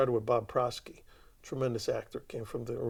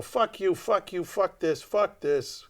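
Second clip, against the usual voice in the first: loud, higher shouted curses; stage yelling; 7 semitones higher, 6 dB louder, slower than usual. Retold or imitated. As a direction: hurl each curse. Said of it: "guys on stage going".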